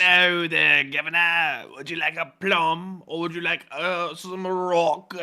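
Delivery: a hint of the cartoon critter; lightly voiced creature. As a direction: mimic the plum offer. Copying the creature.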